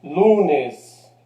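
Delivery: "Lunes" strong on "Lu", then falling; penultimate stress. Shown as a demonstration. Teacher showing an unaccented grave, "Lunes" stressed on "Lu". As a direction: lean on the first syllable of "Lunes". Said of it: "la sílaba fuerte continúa siendo la penúltima".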